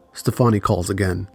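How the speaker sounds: plain reading voice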